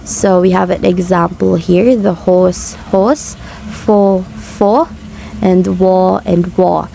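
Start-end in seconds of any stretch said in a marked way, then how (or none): 2.0-6.9 "host" and "host" said identically, "war" and "war" slow and alike; same sound for both spellings; slow, matching word pairs; merger demo. Shown as a demonstration. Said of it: "they have the same pronunciation".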